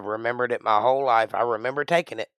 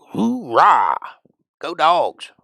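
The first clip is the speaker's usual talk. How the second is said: loud, higher cheer; 5 semitones higher, 7 dB louder, much slower than usual. Pretend. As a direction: whoop for the team. Cheering for Georgia.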